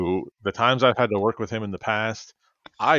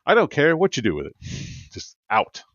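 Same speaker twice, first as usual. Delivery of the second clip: firm refusal. Retold or imitated. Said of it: "I said".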